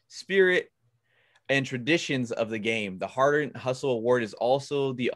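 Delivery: flat, even monotone reading; robot voice. Shown as a demonstration. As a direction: read it off like a robot. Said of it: "might sound like a robot".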